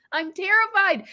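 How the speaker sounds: nervous laugh while admitting fear. Real, not acted. Admits to listeners her fear of conflict, laughing and high.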